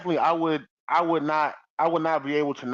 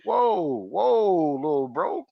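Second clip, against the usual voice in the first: mock startled; 2 semitones higher, slower than usual. Acting startled confrontation.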